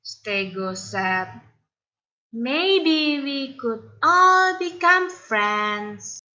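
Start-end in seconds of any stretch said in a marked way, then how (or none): 2.3-6.2 timid friend. Acted. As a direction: suggest it nervously. Timid Stego hopeful.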